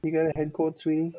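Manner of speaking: high, put-on Jewish mom voice; New York Jewish accent. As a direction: coo it like a doting yenta mom. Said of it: "Mom, you sound like Drew".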